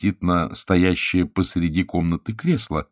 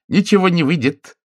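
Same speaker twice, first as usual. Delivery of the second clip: cheerful; 12 semitones higher, 6 dB louder than usual. A narrator's reading. Husband's cheerful refusal.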